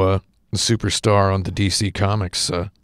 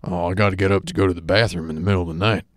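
put-on old man voice; 3 dB quieter, much faster than usual. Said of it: "older men ... they'll say things like".

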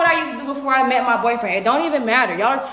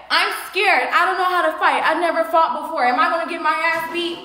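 mocking quote; 3 semitones higher than usual. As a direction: imitate a scared opponent, mockingly. Mockingly quoting opponent admitting fear.

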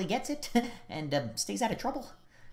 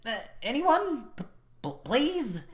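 timid pleading; 3 semitones higher, 6 dB quieter than usual. Acted. Teacher begging silent class to speak, timid and pleading. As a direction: stammer out a small, helpless request.

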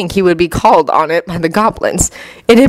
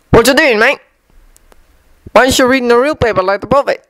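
lightly raised, brisk pub regular; chatty barfly voice; 5 semitones higher, faster than usual. Acted.

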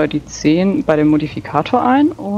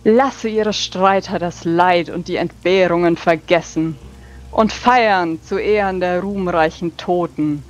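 hammy stage actor; 2 semitones higher than usual. Acted. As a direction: proclaim it with big theatrical sweep. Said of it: "sehr tulamidisch, theatralisch".

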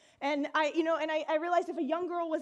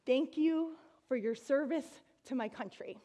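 solemn. Retold or imitated. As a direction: give it a solemn, formal weight. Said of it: "she said very solemnly".

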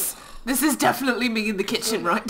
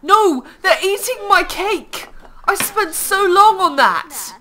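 high, loud indignant wail; exasperated, high-pitched outcry; outraged protest; 8 semitones higher, 6 dB louder than usual. Real, not acted. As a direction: protest loudly over a stolen treat. Outraged that cake is being eaten.

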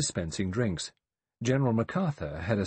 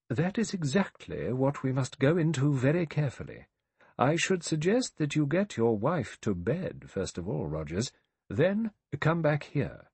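authoritative; 6 semitones higher than usual. A narrator's reading. Judge takes charge and directs Rogers, authoritative. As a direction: give instructions with a judge's deliberate authority. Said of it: "He spoke with the authority".

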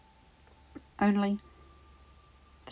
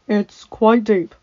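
matter-of-fact; 10 dB louder, much slower than usual. Acted. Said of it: "Adam stated".

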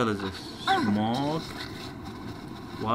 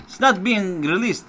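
high-pitched fed-up complaint; exasperated; 9 semitones higher, 4 dB louder than usual. Real, not acted. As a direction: whine in frustration at the game. Frustrated at stuck controls.

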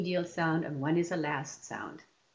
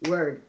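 "word" as a single louder clapped beat; one clapped beat; 6 dB louder than usual. Shown as a demonstration. Teacher clapping one syllable for the class. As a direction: clap "word" once, firmly. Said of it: "Let's clap for word".

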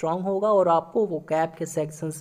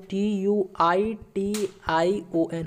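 spelling out slowly; much slower than usual. Shown as a demonstration. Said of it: "कैसे इसका सही लिखिएगा आप लोग?".

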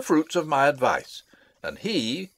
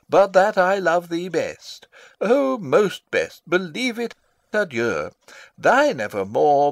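higher, mock-lovesick letter reading; stage direction: father reads a prince's love letter aloud, higher and mock-tender; 4 semitones higher than usual. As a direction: read out the young lover's gushing words, a touch mocking.

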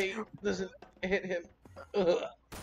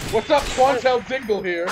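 youtuber intro voice; 4 semitones higher, 8 dB louder than usual. Pretend. Streamer intro voice.

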